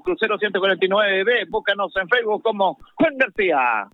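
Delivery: rattled-off radio sponsor spot; sports-radio advert delivery; live ad read. Acted. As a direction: read the sponsor list out mid-match.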